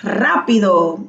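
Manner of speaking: "Rápido" with the first syllable RÁ stressed. Shown as a demonstration. Teacher repeats student's example, stress on RÁ. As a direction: hit the A in "Rápido". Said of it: "con acento en la A".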